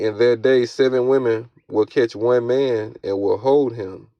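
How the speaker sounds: deliberate, emphatic verse reading; scripture reading. Acted. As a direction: proclaim the verse slowly, word by word. Reads scripture aloud.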